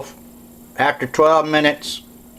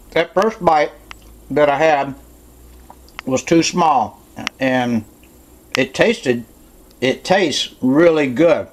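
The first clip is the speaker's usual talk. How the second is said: talking while chewing; mouth full. Real, not acted. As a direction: speak through a mouthful of food. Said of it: "I'm gonna talk with my mouth full".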